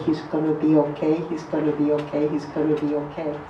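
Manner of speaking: a gentle inner voice fading away; quiet comforting voice trailing off; inner voice reassurance. Retold or imitated. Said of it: "Something somebody put my ears closed and said".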